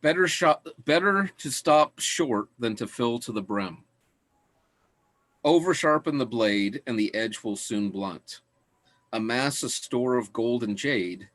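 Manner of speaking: calm recitation of Taoist verse; scripture reading. Acted. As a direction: read each line like an ancient proverb. Reads verse from Tao Te Ching.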